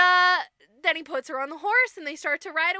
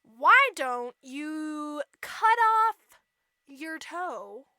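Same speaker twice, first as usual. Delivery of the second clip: slow, deliberate coaxing; scheming stepmother; slower than usual. Retold or imitated. Mom advises cutting off a toe, slow and measured. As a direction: lay it out slowly, word by word.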